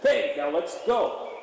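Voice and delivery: slow, rising call to get going; a drawn-out, lively come-on to the horse; energetic cue. Shown as a demonstration. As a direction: pump the energy into the ask. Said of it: "We say".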